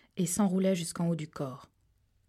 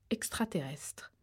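slow unvoiced eerie whisper; 9 dB quieter, slower than usual. A narrator's reading. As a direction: breathe the word out slowly. Eerie narration, whispered word. (mot chuchoté, lent et inquiétant)

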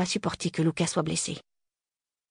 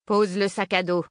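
put-on gruff old man giving orders; 3 semitones higher than usual. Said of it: "Il a vraiment une voix de vieux".

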